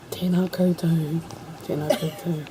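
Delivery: a touch of formal, measured greeting; professional voice. Shown as a demonstration. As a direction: put on the official presenter voice. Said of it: "Professional voice".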